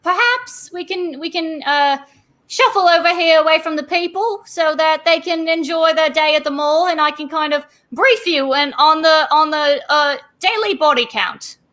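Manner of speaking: a weary constable casually mentioning a body count; a hint of a harried security guard; Barnabas, briefing. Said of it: "He's like".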